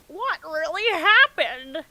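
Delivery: put-on high, loud, slow whiny girl voice; high girly distress. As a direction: wail it like a panicked girl. Hinata quote.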